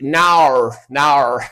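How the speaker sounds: mock Australian "naur, naur", lightly done; a playful Australian drawled no; mock Australian accent. Mimicking an Australian saying no, mock Australian accent. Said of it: "This sounds like what Australian people say".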